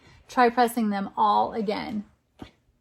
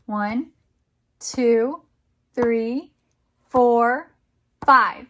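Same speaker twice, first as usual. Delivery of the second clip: counting up, each number louder; building count; 2 semitones lower, 3 dB louder, much slower than usual. Real, not acted. Parent counting taps with child, growing louder. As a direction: build the count to a big finish.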